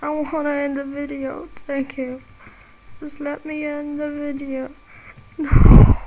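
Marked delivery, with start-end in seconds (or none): 3.0-4.7 a half-crying plea; mock whine. Real, not acted. Gamer begging the game to let him finish, a mock whine. 5.4-6.0 loud shouted no. Real, not acted. Gamer to the screen after dying, a loud shout. Dies again in game.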